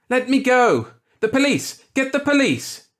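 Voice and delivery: high, loud, desperate shouts; frantic yelling. A narrator's reading. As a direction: fight free and yell for help. Tearing loose from grabbing hands.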